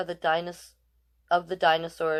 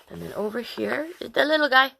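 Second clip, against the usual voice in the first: whispering; 5 semitones higher than usual. Real, not acted. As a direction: hush it like sharing a secret. Pointing out the little dinosaur.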